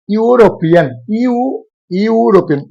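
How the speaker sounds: "यूरोपियन" with a drawn ee-oo at the start; showing pronunciation. Shown as a demonstration. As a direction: sound out "यू" as ee-oo, then "यूरोपियन". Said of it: "ई और यू एक साथ है".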